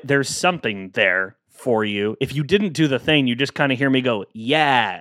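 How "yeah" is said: dry, knowing yeah; sarcastic yeah. Shown as a demonstration. Host shows the sarcastic read of his neutral reply. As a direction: let the yeah drip with doubt. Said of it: "read into the sarcasm of that".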